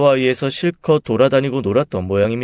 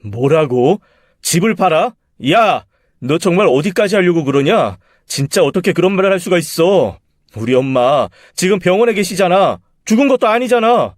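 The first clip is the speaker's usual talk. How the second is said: rising outraged shout, higher and louder; furious husband; 6 semitones higher, 4 dB louder than usual. Acted. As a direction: erupt at her in disbelief. Husband furious at wife's plan. (아내에게 분노해 소리치는 남편)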